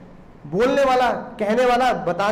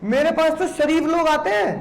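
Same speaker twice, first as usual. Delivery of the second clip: lightly voiced meek pleading, pitched higher; timid contract voice; 5 semitones higher than usual. The contract pleads it is decent civil law, meek higher voice. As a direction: play the contract begging, a bit higher. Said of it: "कह रहा".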